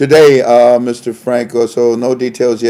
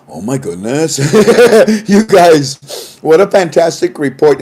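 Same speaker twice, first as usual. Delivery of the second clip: quoting his own reply to the report, laughing through it; a quick laugh breaks up the gushing praise; 3 semitones higher than usual. Retold or imitated. Quoting his own praise of the report, laughing. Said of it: "I'm laughing so hard".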